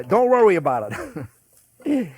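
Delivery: punchy mock New York accent. Shown as a demonstration. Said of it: "that's my New York accent".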